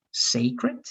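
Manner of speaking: "sacred" with a long A, SAY-krid; corrected vowel. Shown as a demonstration. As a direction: model "sacred" with first syllable like "say". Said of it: "that A more like A".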